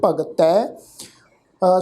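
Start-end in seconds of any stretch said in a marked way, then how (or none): 0.0-0.7 ਭਗਤੈ with a final "-tai"; ending with dulavan. Shown as a demonstration. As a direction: end ਭਗਤੈ on an open "ai" vowel. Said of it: "ਪਾਠ ਉਚਾਰਨ ਕਰਾਂਗੇ".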